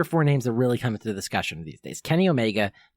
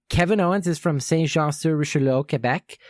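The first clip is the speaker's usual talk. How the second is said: Quebec French pronunciation of Saint Jean-sur-Richelieu and Quebec; Quebec accent; 5 semitones higher than usual. Shown as a demonstration. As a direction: place names in a light Quebec French accent. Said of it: "in kind of my Quebec accent".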